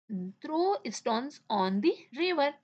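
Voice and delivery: very slow, word-by-word read-aloud; teacher reading a sentence very slowly to the class; slow dictation. Shown as a demonstration. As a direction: spell it out slowly for young students. Teacher reads answer slowly.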